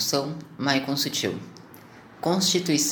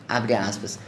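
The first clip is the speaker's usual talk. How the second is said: dictating; 5 semitones lower, slower than usual. Real, not acted. Spoken quote marks in report.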